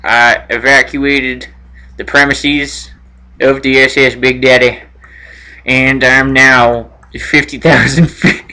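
lightly acted astronaut reporting to base, low register; radio role-play. Role-plays astronaut and mission control.

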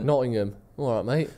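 East Midlands vowels, 'All right, mate'; Nottingham accent. Shown as a demonstration. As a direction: say it like a Nottingham local. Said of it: "how do you do a Nottingham accent".

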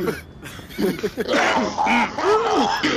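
smoker's rasp. Pretend. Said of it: "That's a mild one".

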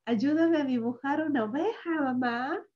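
lightly voiced child pleading; child asking mom. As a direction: ask mommy like a little kid. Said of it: "Dile, mamá".

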